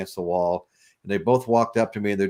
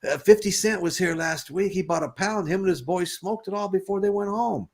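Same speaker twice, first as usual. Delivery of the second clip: pushy dealer; 8 semitones higher than usual. Retold or imitated. Bartender pressing the sale.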